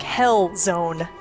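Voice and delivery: ordinary talk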